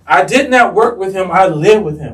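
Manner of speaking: weight on "lived" in "I lived with him"; emphatic for it to sink in. Real, not acted. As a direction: stress "lived" as the key word, contrasted with "work". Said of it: "I really need this to sink in".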